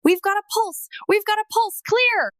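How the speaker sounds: high, loud urgent medic shout; retold screaming. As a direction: yell it out over the chaos of a resuscitation. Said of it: "I heard screaming".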